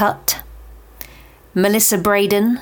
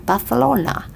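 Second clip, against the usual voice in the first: Barcelona repeated with a Spanish th, pitched up; Spanish accent; 5 semitones higher than usual. Pretend. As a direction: Barthelona in a hammed-up Spanish accent. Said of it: "do you like my Spanish accent there?".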